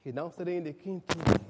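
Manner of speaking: normal talking voice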